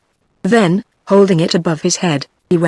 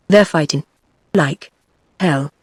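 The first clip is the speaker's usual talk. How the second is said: gasping; 2 semitones lower than usual. A narrator's reading. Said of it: "shouted out all at once, and in gasps".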